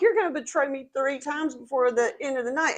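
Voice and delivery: lightly acted scoff at a boast; Jesus. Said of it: "Jesus kinda scoffs at them".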